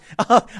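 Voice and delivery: loud real laugh; can't hold back a laugh; burst of laughter. Real, not acted.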